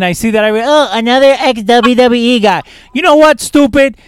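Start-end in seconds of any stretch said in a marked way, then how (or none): 0.6-2.6 mocking quote. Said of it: "I see that in every freaking group". 2.9-4.0 loud, high, exasperated rant. Real, not acted. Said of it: "let me go on my little rant".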